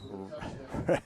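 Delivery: brief quiet giggle; real giggle. Real, not acted. Co-commentator amused by the winded official, giggling. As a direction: let a small giggle slip out. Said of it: "I'm sorry to giggle".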